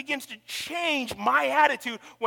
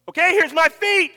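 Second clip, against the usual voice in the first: offering prayer; 5 semitones higher, 7 dB louder than usual. Retold or imitated. Friend's morning prayer retold.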